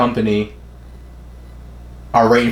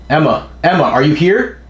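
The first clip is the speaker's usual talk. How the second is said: raised, questioning call for someone; searching call; 5 semitones higher than usual. Acted. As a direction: call out as if looking for her, voice rising. Character calls out searching for Emma.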